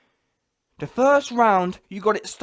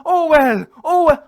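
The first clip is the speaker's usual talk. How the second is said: mocking whine; 5 semitones higher, 6 dB louder than usual. Mocking the fighter's excuses.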